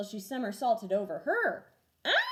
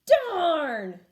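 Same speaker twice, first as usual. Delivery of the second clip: put-on loud, higher kid's groan of a word; sulky boy, louder; disappointed kid; 6 semitones higher, 10 dB louder than usual. A narrator's reading. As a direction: blurt it out in dismay. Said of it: "Andy said when he saw".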